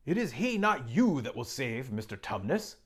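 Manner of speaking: put-on a beaver telling children about the king; Mister Beaver. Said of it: "said Mister Beaver".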